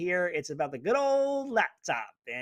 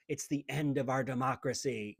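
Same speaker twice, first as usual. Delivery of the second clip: mock alarmist pundit; 7 semitones lower, 4 dB quieter than usual. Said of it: "let's use language like this".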